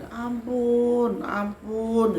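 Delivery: high, drawn-out mock wail; imitated tearful pleading. Spirit begging for mercy while crying, imitated wailing plea. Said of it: "di dalam nangis itu dia bilang".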